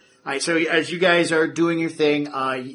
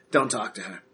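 lower, curt warning voice; stern warning; 5 semitones lower than usual. Acted. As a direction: cut him off firmly. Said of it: "Terrence reaches out and says".

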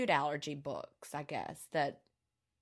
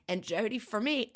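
choking up; 5 semitones higher than usual. Real, not acted. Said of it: "I'm choking up".

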